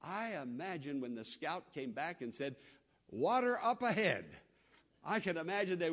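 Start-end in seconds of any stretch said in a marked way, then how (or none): 3.1-4.2 calling out good news of water; excited scout's call. Retold or imitated. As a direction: shout it like you spotted water.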